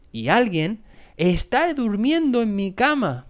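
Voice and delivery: put-on high, alarmed baby bear exclamation; mock cry out. A narrator's reading. Baby bear finding someone asleep in the bed, crying out. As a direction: cry it out high, storybook style. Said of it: "gritó el osito bebé".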